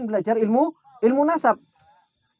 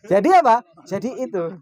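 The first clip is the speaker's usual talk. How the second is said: laughing. Real, not acted. Tertawa bersama jamaah.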